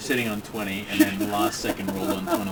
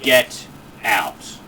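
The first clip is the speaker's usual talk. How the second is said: a booming voice, lightly done; booming arrogant alien overlord; 3 semitones lower, 5 dB louder than usual. Acted. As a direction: boom out a command. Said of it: "And in a booming voice".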